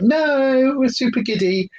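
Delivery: high, excited puppy voice voiced by owner; voicing the puppy. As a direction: squeal it like a giddy puppy. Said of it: "He'll be like".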